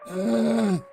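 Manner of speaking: dog grunt. Retold or imitated. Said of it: "she goes".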